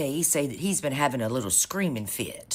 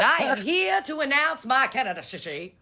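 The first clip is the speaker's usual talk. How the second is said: mock announcement; 8 semitones higher than usual. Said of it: "He walked out there and said".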